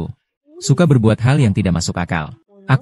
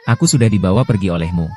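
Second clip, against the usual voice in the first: put-on crying child. Child sobbing in replayed scene.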